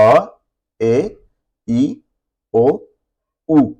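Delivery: the five Italian vowels run through briskly; teacher recaps the five vowels for students, quick and even. Shown as a demonstration. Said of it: "तो ये पांच जो हैं vowel हरूफ हैं".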